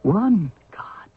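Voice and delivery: unvoiced, reverent whisper; hushed whisper. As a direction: breathe it out in an awed whisper. Reverent vision of the one god.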